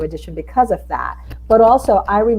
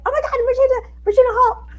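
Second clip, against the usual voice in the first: high-pitched starstruck squeal; excited screaming; 3 dB louder, faster than usual. Retold or imitated. Greeting an actress she admires, excited screaming. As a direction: imitate a fan screaming a star's name. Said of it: "screaming back and forth".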